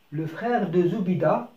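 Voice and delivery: slow, drawn-out le frère de Zoubida; slow classroom reading; slow model reading. Shown as a demonstration. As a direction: read it slowly for the pupils. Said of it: "teacher models sentence slowly".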